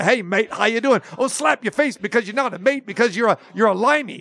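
put-on Australian accent; Crocodile Dundee, Australian accent. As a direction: slip into a loose mock-Australian accent. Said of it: "I get Crocodile Dundee".

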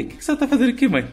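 high startled question; surprised. Retold or imitated. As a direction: ask it in shocked surprise. Asking mother, high pitch.

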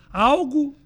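stuffy nose, m sounds like b; talking through a blocked nose. Real, not acted. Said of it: "palavra terrível pra falar com o nariz entupido". (nariz entupido)

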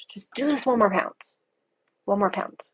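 unvoiced whisper, coaxing herself on; whispered self-talk. Whispering to herself through a hard pound. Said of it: "So I just kept telling myself that".

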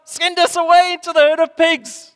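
high, loud pleading demon. Acted. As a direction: beg like a cornered demon. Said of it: "The demons begged him".

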